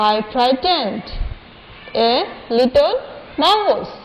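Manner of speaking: "I frightened" read slowly and evenly; slow recitation. Shown as a demonstration. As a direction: say "I frightened" word by word. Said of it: "আমি আবার পড়িয়ে দিচ্ছি তোমাদেরকে".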